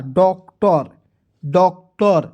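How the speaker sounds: डॉक्टर in two slow, separated beats; pronunciation demo. Shown as a demonstration. Teacher showing students the OR sound, demonstrating pronunciation. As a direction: say डॉक्टर with a clear short a in the last syllable. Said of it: "उसका उच्चारण अ के रूप में".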